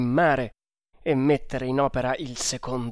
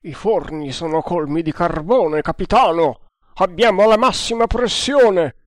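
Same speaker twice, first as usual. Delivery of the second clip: engineer's loud, higher report; shouted report; 5 semitones higher, 6 dB louder than usual. A narrator's reading. Engineer shouting back to the captain, loud and strained. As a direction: yell up from the engine room.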